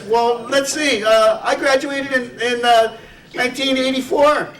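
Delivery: bloke recalling his year in a put-on Irish brogue. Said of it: "I'll try to do a little Irish brogue".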